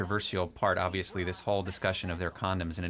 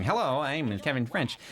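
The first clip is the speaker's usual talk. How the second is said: slow, mildly nerdy stiff voice; 4 semitones higher than usual. Retold or imitated. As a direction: play it like a stock nerd. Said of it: "doing the nerdy voice".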